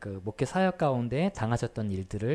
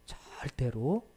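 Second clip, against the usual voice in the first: voice of God; 3 semitones lower, much slower than usual. Retold or imitated. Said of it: "하나님께서 목사님께 이렇게 말씀하셨습니다".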